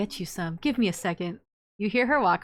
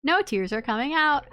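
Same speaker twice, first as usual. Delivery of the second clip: rising frustration; 5 semitones higher than usual. Acted. Reading the failed crying scene.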